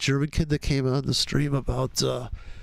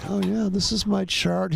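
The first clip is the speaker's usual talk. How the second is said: slow, higher mock Dieter voice; slow Dieter imitation; 6 semitones higher, slower than usual. Imitating the German trader showing his chart, slow and high. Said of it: "he was a slow".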